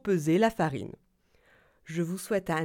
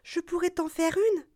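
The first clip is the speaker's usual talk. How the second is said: put-on old woman voice; 10 semitones higher than usual.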